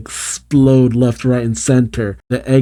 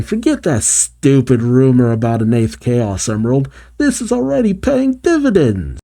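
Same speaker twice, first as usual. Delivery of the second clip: Fang. Acted. Fang cheering the sidecars paying off, cheering. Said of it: "But Fang cheers".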